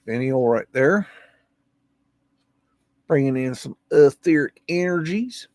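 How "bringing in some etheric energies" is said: hushed, mock-mystical whisper. Vlogger whispering mock-mystically about a rooftop finial. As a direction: breathe it out like a secret.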